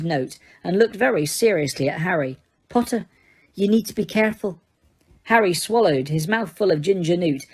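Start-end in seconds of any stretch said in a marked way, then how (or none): 2.7-4.6 low and anxious. A narrator's reading. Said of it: "low and anxious".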